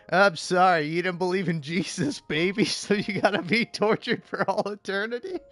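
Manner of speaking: a hint of a mock-solemn deity; mock God. Streamer mocking God turning a baby away, mock solemn. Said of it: "God's gonna be like".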